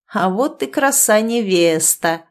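slow, slurred tipsy exhale of the words; drunken slur. Acted. Drunk guardsman mocks the bride, slow slurred voice. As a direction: drawl it out like a drunk officer, slowly. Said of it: "выдохнул заплетающимся голосом".

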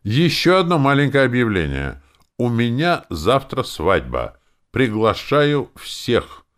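loud, high, slow announcement; calling over noise. Acted. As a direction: project over the tavern din. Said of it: "перекрикивая шум". (громко, перекрикивая шум таверны)

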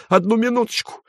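put-on high shrieking old man's falsetto; old man yelling in falsetto; piercing falsetto. A narrator's reading. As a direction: cry out to stop the fight, high. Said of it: "завопил он пронзительным фальцетом".

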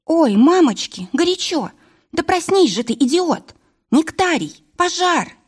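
high, frantic yelling at the sleeper; burning her hands and screaming him awake; a high-pitched panicked cry. A narrator's reading. Varvara burning hands, waking him.

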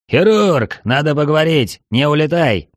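loud call from a distance; shouting. A narrator's reading. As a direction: call out loud to stop him. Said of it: "Вновь раздался крик". (громкий окрик)

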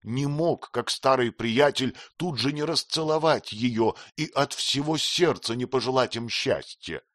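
usual speaking voice

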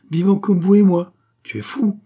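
high-pitched, mildly astonished outburst; heated exclamation. A narrator's reading. Astonished argument over a supposed death.

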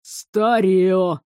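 мастер пренебрежительно бросает; сплюнуть словом; презрительно. A narrator's reading. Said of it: "сплюнул в сторону". (мастер презрительно оценивает старый насос)

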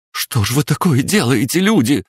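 высокий громкий женский крик отчаяния; взмолись, перекрикивая толпу; материнский голос. Acted. Мама в отчаянии кричит. (мама отчаянно кричит на людей)

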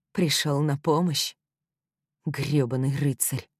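ordinary delivery

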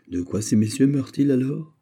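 high, urgent questioning cry; exclaimed question. A narrator's reading. Officer demands the cause of death, exclaimed question. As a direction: cry out the question, pitch lifted. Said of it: "s'écria un officier".

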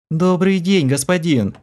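a lightly voiced purring greeting; purring maid. A narrator's reading. The enchanted maid greets the hero, purring. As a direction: purr it sweetly to the master. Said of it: "промурлыкала шатенка".

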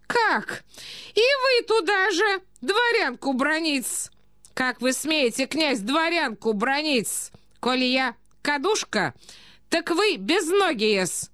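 high, indignant society lady; outraged provincial lady. A narrator's reading. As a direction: round on the prince, drawing out the affront. (оскорблённая дама, высоко и протяжно)

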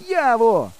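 high-pitched searching call; hollering. A narrator's reading. Boy has lost his friend's voice, hollering. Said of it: "гукаю нарешті".

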